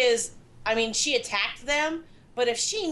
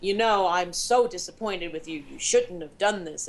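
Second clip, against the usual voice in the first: serious admonishing; 6 semitones lower than usual. Retold or imitated. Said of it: "admonish you in a very serious tone".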